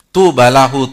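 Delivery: shouted out at full force; full-voiced preaching cry; exclaimed. Real, not acted. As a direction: ring it out across the hall. Preacher exclaims the hadith word.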